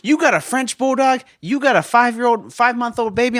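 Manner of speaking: mock know-it-all lady; knowing woman. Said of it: "she's like".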